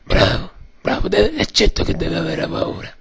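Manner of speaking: hoarse mock mafia boss; Godfather voice. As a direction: rasp like an aging don. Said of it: "Sono il Pacino".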